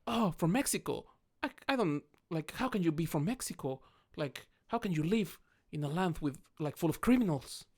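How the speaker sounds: light impression of an old Finnish guy; mock old Finnish man. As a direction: play the drunk local scoffing. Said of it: "speaking Finnish quite quick with a thick accent".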